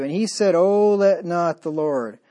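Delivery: scripture reading. Acted. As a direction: read the verse with solemn weight. Reads scripture aloud in sermon.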